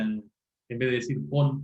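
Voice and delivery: "pon" said slowly, one syllable; slow example. Shown as a demonstration. Teacher giving the standard form pon, slowly. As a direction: draw out "pon" for the class. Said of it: "esto de poner esta".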